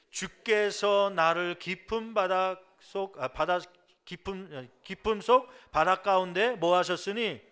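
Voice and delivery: loud, drawn-out verse reading; scripture reading. Acted. Pastor reading Jonah's prayer with the congregation, loud scripture recitation. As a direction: read out the verse for all to follow, stumbling midway.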